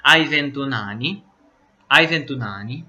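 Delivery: "Hai ventuno anni?" rising at the end as a question; teacher modelling Italian question tune on "Hai ventuno anni?"; question intonation. Shown as a demonstration. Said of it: "aquela entonação na voz".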